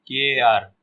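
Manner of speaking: 'केयर' drawn out, e gliding into a; combined vowel demo. Shown as a demonstration. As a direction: let both vowels be heard in 'केयर'. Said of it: "ए और ओ". ('केयर' में दोनों स्वर साफ़ बोलें)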